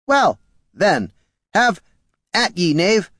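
high, stiff construct voice; mock-chivalrous golem challenge. Golem taunts.

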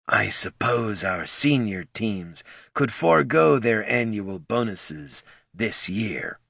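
put-on raspy old dwarf voice; rasping. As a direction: rasp it out slowly. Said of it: "he rasped".

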